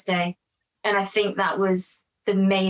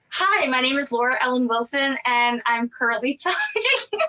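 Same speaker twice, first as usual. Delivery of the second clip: self-conscious, shaky attempt at an American accent, breaking into laughter; bad American accent; 3 semitones higher than usual. Shown as a demonstration. Actress demonstrating her terrible audition accent for the host, bad American accent. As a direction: put on an American accent badly and crack up. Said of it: "my American accent was that horrible".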